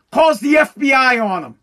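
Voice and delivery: angry yell at the snitch; outraged shout. Real, not acted. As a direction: blurt it out in disgust. Outraged at son calling FBI.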